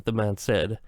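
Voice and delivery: ordinary delivery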